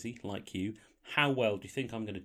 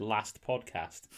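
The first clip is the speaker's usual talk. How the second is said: "Last podcast" with a short flat northern A, slowly; much slower than usual. Shown as a demonstration. Host showing his new accent to cohost: "Last" northern. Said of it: "my A's have gone northern".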